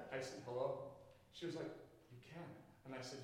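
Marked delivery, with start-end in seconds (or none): 0.5-0.9 low, hushed hello; soft little greeting, pitched down. Retold or imitated. Preacher proves to a doubting wife he can speak quietly, soft. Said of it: "in a very soft voice". 2.1-2.5 very soft, barely voiced; hushed reply. Wife concedes to the preacher that he can, hushed. Listener amazed he can speak quietly.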